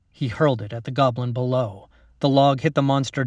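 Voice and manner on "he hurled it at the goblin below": usual speaking voice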